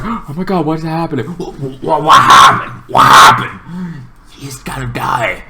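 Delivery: panicked retelling. Retold or imitated. To Green Boy, watching the hero fall, in panicked disbelief.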